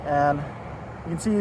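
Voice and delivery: muffled through a face mask; talking behind a mask. Real, not acted. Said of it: "my voice is a bit muffled, but I'm wearing a mask".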